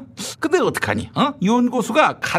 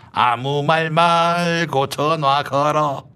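slow bossy scolding; 3 semitones lower, much slower than usual. Acted. Blustering minister scolds on phone.

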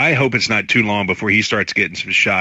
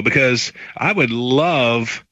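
"love" drawn out slowly with weight; stress on love; slower than usual. Real, not acted. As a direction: lean on "love", stretch it. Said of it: "and I emphasize love".

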